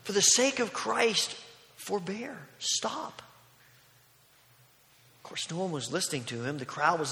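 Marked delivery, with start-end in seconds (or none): 0.0-3.2 urgent, higher-pitched mock yell; raised-voice plea, pitch jumping up; retold yell. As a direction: cry out in protest, without full force. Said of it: "And he began to yell".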